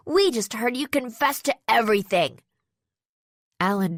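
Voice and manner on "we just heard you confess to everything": confident high-pitched voice. A narrator's reading. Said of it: "A confident but rather high-pitched voice".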